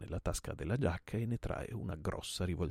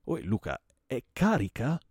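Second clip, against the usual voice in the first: loud, urgent question, rising sharply at the end; alarmed question; 6 semitones higher, 9 dB louder than usual. Acted. Host to man examining his revolver, alarmed. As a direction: press him in alarm about the gun.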